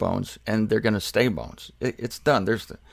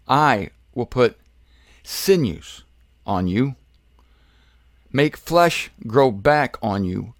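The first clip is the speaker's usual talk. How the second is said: slow, measured reading with weighted pauses; solemn scripture reading. Acted. Preacher reading God's word to the dry bones, solemn and measured. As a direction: proclaim it phrase by phrase, slowly. Reads God's prophecy aloud.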